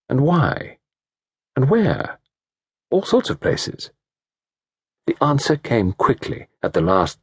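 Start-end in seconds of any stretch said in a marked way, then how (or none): 2.9-3.9 breathy, half-voiced whisper; whispered thought. A narrator's reading. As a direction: breathe it like a memory surfacing.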